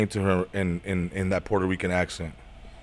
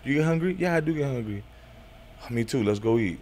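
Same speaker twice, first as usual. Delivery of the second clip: 1 smooth pickup line; 5 dB quieter than usual. Pretend. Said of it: "I would tell a girl".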